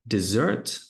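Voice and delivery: dessert stressed on SERT; stress on second syllable. Shown as a demonstration. Teacher showing word stress. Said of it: "that's two".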